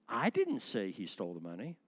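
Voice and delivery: "I" leaned on, the rest running on; stress on I. Shown as a demonstration. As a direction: put the weight on "I", someone else said it. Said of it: "Now let's emphasize that".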